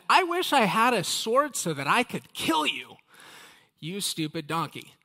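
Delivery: mock furious yell at the donkey. Balaam yelling at his stubborn donkey, in a mock furious yell. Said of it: "and Balaam was furious".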